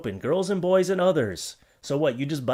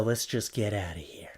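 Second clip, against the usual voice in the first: whispered, hushed getaway; scared whisper; 6 semitones lower, 6 dB quieter than usual. Acted. Vlogger whispering to viewers, spooked by scary objects. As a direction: whisper as if sneaking away from something scary. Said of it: "Now I feel frightened".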